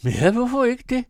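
very high, loud tipsy comeback; defiant retort. A narrator's reading. Drunk Arthur answering his brother, defiantly loud. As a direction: throw it back loudly, pitch leaping up.

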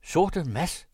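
high, loud cry of recognition; called out. A narrator's reading. Cornet recognising the poacher he once helped, calling out loudly. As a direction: exclaim the name, voice jumping up. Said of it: "råbte kornetten".

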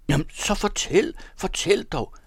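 impatient scream. A narrator's reading. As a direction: demand it, stamping with impatience. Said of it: "skreg den lille mand og stampede". (skrigende og utålmodig, meget høj tone)

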